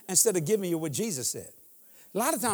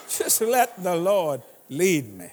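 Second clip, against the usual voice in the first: slow, syrupy and pious; mock pious drawl; 2 semitones lower, 3 dB louder, slower than usual. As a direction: drag out the fake holiness. Repeats wife's line slowly.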